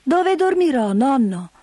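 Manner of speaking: put-on high, eager child question; little girl. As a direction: ask like a curious girl. Heidi asks.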